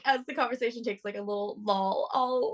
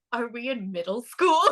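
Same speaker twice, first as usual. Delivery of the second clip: laughing retort; 3 semitones higher, 4 dB louder than usual. Retold or imitated. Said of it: "I'm like".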